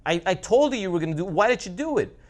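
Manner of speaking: hammed-up betrayed frog; outraged frog. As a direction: yell it while going under. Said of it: "the frog's like".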